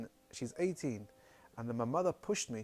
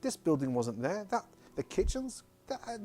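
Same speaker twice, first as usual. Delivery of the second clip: retold outburst, high-pitched and insistent; mock agitated shouting; 7 semitones higher, 4 dB louder than usual. Mother protesting to her son at Auschwitz, agitated retold shouting. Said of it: "she starts screaming, she starts shouting".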